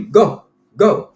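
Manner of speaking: high, loud imitated command; mock yelled order. Neighbor ruining his mood, imitated high shout.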